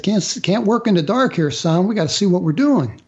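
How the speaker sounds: a hint of a Southern officer talking down to a kid; Southern accent. Captain telling the injured young airman the lights stay on, in a mild imitated Southern accent. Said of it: "he had this weird Southern accent".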